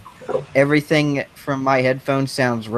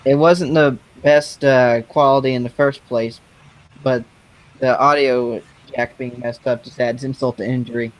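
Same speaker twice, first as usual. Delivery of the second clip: robot voice through a broken headphone jack; glitchy, robotic sound like a bad connection; robotic audio. Real, not acted. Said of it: "you still sound like a robot".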